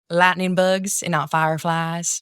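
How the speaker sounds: slow Southern drawl; Southern accent. Shown as a demonstration. Showing a friend Southern words for fireflies, slow Southern accent. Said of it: "I can do Southern".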